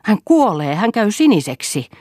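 panicked cry. A narrator's reading. Mother crying out as her son turns blue, high and frightened. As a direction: cry out in terror for the child.

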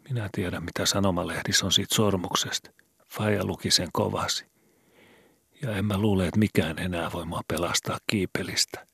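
put-on a scared boy asking in the dark; worried boy Skobe. A narrator's reading. Skobe voiced higher, despairing. (huolestunut poika)

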